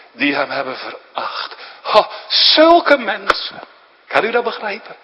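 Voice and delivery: overcome, near tears; preacher moved at sinners who despised him; choked up. Real, not acted. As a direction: voice breaking on a high, slowed cry. Preacher moved over despised Christ.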